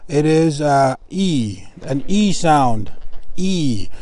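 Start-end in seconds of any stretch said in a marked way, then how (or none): 2.1-3.9 "E" held as a long ee; long E sound. Shown as a demonstration. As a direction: demonstrate "E" as a clear, lengthened vowel. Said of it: "the I is a long".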